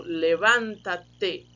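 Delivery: "levanta-te" drawn out slowly, stress on the "van"; slow demo pronunciation. Shown as a demonstration. Teacher modelling "levanta-te" slowly for students. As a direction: spell out "levanta-te" slowly for the class.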